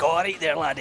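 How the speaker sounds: everyday Scottish accent, lightly done; easy Scottish lilt; normal Scottish. Shown as a demonstration. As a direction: greet casually in natural Scots. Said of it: "talk normally and be like".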